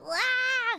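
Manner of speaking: high, loud wow; surprised wow. Real, not acted. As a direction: react with delight. Reacting to chat.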